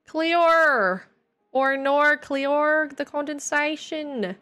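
theatrical put-on Australian wail; Australian accent. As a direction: ham it up in a slow Australian accent. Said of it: "It's kind of Australian".

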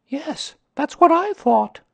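put-on high, slow boy's voice; loud child agreeing; Christopher Robin. A narrator's reading. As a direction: pitch it up as a young boy.

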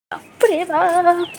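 high, very slow drawn-out gasp of surprise; astonished exclamation. Real, not acted. Finding her shoes sun-baked on the roof, surprised. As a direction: stretch it out in amazement.

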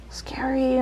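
scared whisper. Real, not acted. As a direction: breathe it, afraid. Whisper heard.

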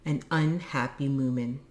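letter read out loud; emphatic opening, settling into measured reading; reading aloud. A narrator's reading. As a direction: read a plea for rescue aloud. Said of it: "read out loud".

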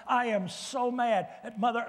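imitating someone venting, lightly heated; mock angry complaint. To the pastor about being treated badly, mildly worked-up. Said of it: "Have you ever heard somebody say".

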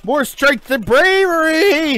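slow, loud heroic proclamation; heroic battle cry. Pretend. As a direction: declare it like a knight charging. Hammed-up battle cry over popcorn.

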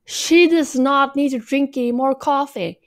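She does not need said high and emphatic; stress on does not. Acted. Repeating to viewers she needs no coffee, emphatic. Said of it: "I can't stress this enough".

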